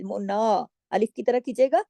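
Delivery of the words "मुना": मुना with ना drawn out; two-count vowel. Shown as a demonstration. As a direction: hold the आ of मुना two beats. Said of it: "दो हरकत के". (मुना, दो हरकत खींचकर)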